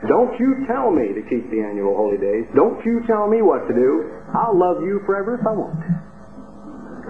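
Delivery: lightly imitated scolding of God; mock finger-wagging defiance. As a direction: wag a finger with each don't. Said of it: "shaking their finger right in His nose".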